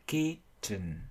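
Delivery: KITCHEN split, a strong KIT then a brief "chən"; long and short syllables. Shown as a demonstration. Teacher breaking down syllable length, KITCHEN in uneven syllables. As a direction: separate KITCHEN into stressed KIT and weak ending. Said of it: "một âm ngắn và âm dài".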